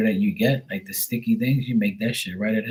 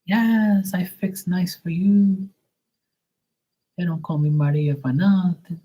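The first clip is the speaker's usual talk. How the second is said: put-on high, slow Portuguese-accented broken English; mock Portuguese accent; 10 semitones higher than usual. Portuguese Maria boasting about her cooking, in a high, slow accent. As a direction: play the proud Portuguese cook.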